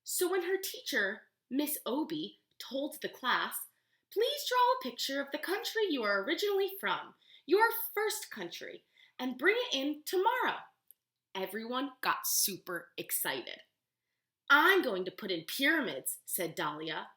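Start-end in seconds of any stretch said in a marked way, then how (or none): 4.1-10.6 teacher voice. Acted. Teacher voiced giving assignment. 14.5-16.2 put-on excited kid. Child character excited.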